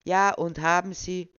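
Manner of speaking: an official losing patience; impatient. Acted. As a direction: hurry him along. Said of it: "zusehends ungeduldig werdend".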